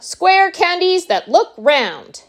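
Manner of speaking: high, loud and slow showman's announcement; exultant cry. A narrator's reading. Wonka unveils his candies to the group, high proud cry. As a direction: proclaim it, stretching the words. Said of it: "cried Mister Wonka".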